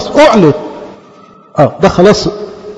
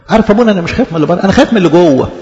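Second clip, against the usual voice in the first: laughing; much faster than usual. Retold or imitated. Voicing a worried parishioner.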